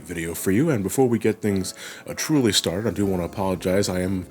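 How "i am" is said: congested. Real, not acted. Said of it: "I'm very congested".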